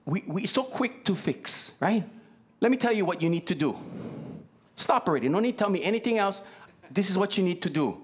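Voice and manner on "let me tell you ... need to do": fast, pushy fixing voice, rattling off advice; mock know-it-all fixer. Friend who is quick to fix, cutting you off in a fast pushy voice. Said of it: "we're like".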